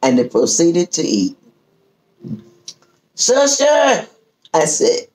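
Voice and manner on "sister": high, lightly voiced pastor call of "Sister". Pastor calling the hostess for more gravy, lightly voiced.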